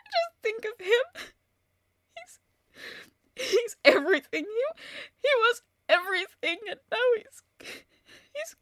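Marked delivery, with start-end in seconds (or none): 2.1-4.4 sobbing. Acted. Widow breaking down over Martin.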